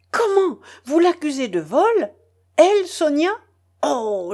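high, loud indignant cry; outraged. A narrator's reading. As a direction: fling the accusation back at him. Catherine rushes at Lougine, outraged.

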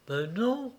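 petite voix haute et douce; démenti rassurant. A narrator's reading. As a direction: nier tout doucement pour le consoler. Marie le rassure. (douce dénégation)

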